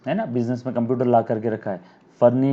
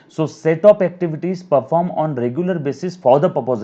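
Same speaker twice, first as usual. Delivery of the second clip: slow dictation; 3 semitones higher, 3 dB louder, much slower than usual. Shown as a demonstration. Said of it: "मेरे साथ साथ बोलो".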